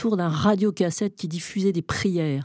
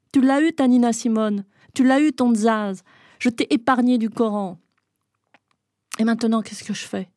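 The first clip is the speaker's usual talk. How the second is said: loud, higher address to the dead father; loud, raised voice to the dead father; speaking loudly; 5 semitones higher, 5 dB louder than usual. Acted. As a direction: talk loud enough to wake him. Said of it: "Je lui parlais fort".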